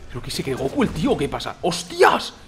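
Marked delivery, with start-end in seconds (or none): 1.6-2.3 surprised exclamation. Real, not acted. Sudden event in game.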